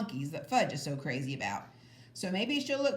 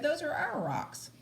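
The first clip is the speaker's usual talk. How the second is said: insisting; 8 semitones higher than usual. A narrator's reading. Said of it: "I said".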